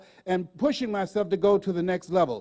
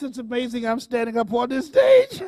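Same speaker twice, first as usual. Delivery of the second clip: laughing; 6 dB louder than usual. Real, not acted. Laughing, near tears.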